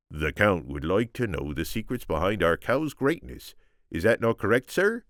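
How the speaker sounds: eager, rising farmer father; lightly voiced father, keen to please; father's voice.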